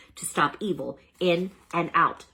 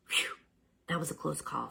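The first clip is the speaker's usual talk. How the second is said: relieved sigh; 9 dB quieter than usual. Acted. Hamster relieved after danger.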